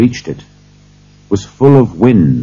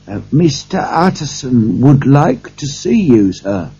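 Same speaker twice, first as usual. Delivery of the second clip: higher-pitched call to someone behind a door; 7 semitones higher than usual. A narrator's reading. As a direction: announce a visitor through the door. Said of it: "he called".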